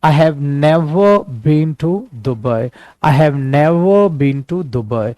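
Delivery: very slow, every word laid out; teacher drilling a sentence for students to repeat, very slowly; slow model sentence. Shown as a demonstration.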